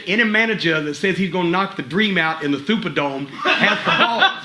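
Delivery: lisping wrestler impression breaking up at the end; Dusty Rhodes. Trainer retells a star's reply via the referee, lisping impression. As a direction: lightly imitate a lisping star, pitch leaping on the punchline. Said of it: "Dream said".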